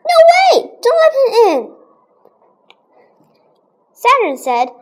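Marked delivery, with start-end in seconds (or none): 0.1-1.8 high, loud, with a laugh: no way; loud refusal. Retold or imitated. Riley shouting in the class play, high and laughing. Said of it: "Riley said".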